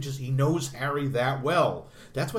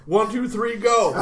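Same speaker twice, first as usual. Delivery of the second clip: higher and louder, building to go; childish countdown; 8 semitones higher, 9 dB louder than usual. Retold or imitated. Mock countdown before the shootout, higher, louder, building. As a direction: count off like kids at play. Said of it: "Who says".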